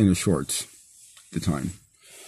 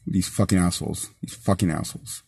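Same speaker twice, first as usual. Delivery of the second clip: softer and softer, ending in a whisper; bitter mutter; 3 semitones lower, 8 dB quieter than usual. Real, not acted. Arrested driver cursing the cops, fading bitter whisper. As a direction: spit it out under your breath until it fades.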